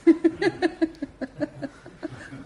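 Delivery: a full, warm burst of laughter; loud laugh. Real, not acted. Laugh alone.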